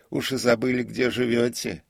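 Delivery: put-on high, loud, surprised old man; prompter's voice. A narrator's reading. Prompter wonders comic forgot his home, high voice. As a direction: chide him gently in a high pitch.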